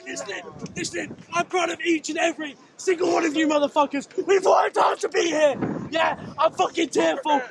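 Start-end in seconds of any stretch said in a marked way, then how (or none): 1.3-5.6 shouting it out to the whole team; proud shout. Real, not acted. Captain addresses team after first win.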